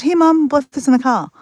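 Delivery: retold calling out. Telling Mum at her door, acted calling out. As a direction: call it out as if across to Mum.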